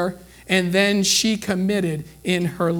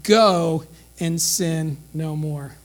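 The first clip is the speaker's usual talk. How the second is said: gentle release; 3 semitones lower, much slower than usual. Retold or imitated. Jesus gently dismissing the woman.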